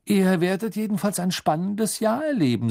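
high-pitched, teasing hint; hint playfully at a secret; winking tease. A narrator's reading. Bill to the children before departure, winking tease. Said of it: "sagte Bill augenzwinkernd".

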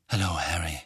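low, grim greeting. A narrator's reading. Sirius greeting his godson after the screaming, grimly. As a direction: greet him with grim restraint. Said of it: "sagte er grimmig".

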